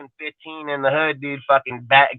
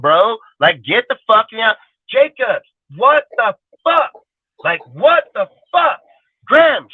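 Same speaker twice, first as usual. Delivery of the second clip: furious fan rant; 7 semitones higher than usual. Retold or imitated. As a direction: yell at the screen in disbelief. Fan yelling at players on TV.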